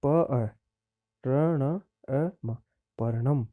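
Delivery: प अ, र ण अ म said sound by sound with pauses, then joined as पर्णम; teacher sounding out letters; spelling out sounds. Shown as a demonstration. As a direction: build the word from its letters slowly. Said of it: "वर्ण संयोजनम कृत्वा".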